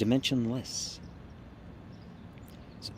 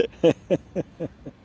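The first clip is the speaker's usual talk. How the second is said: higher-pitched rolling chuckle; laughing; 7 semitones higher, 6 dB louder than usual. Real, not acted. Laughs about the nasty comments.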